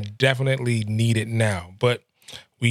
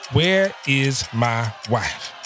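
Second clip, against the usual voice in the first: "where is my wife?" very slow, stress on "where"; drawn out where is my wife; much slower than usual. Shown as a demonstration. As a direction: linger on "where is my wife?" slowly. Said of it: "you put so much emphasis on it".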